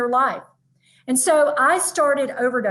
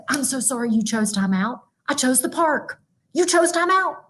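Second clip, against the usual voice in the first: mock sympathy. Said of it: "I'd say".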